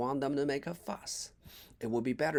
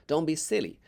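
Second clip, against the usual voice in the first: put-on a lightly raised, brisk girl's voice; Billy's voice; 2 semitones higher, 4 dB louder than usual. Billy teasing Jack on the plank, lightly voiced. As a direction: nudge your friend along, slightly louder.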